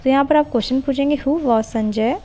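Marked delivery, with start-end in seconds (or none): 1.2-2.2 slow dictation. Shown as a demonstration. Dictates model question.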